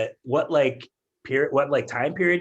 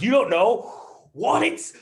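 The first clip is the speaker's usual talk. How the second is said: rising, louder, very slow outburst; flipped out teacher; 8 semitones higher, 4 dB louder, slower than usual. Retold or imitated. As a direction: stretch it out as he snaps. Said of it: "he just flipped out".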